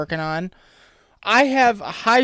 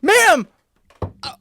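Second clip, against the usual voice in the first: incredulous; 10 semitones higher, 4 dB louder than usual. Retold or imitated. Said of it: "I'm like".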